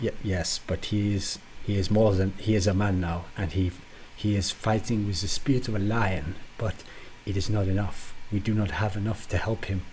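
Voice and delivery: bad French accent, lightly done; hammed-up French accent. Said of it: "a French accent".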